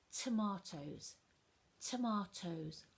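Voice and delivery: tomatoes drawn out, t at start and middle; slow model word. Shown as a demonstration. Teacher modelling tomatoes slowly for children. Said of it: "I can hear it at the beginning".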